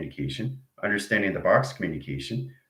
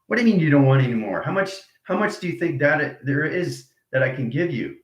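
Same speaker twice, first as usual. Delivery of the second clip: louder, fast indignant retort; 5 semitones higher, 4 dB louder than usual. Acted. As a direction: fire back in disbelief. Personality answering indignantly.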